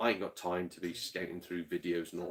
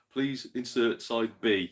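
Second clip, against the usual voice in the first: slow, measured screen message; retold loading prompt; slower than usual. Gamer recalling old tape games' prompt, slow retold instruction. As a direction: read it out slowly like an instruction. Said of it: "it go like".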